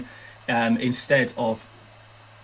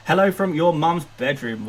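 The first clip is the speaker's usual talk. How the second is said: put-on South African accent. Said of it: "I can do a South African accent".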